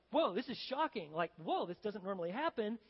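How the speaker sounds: mildly acted astonishment; surprised servants. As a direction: react as if caught off guard. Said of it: "obviously surprised to see him".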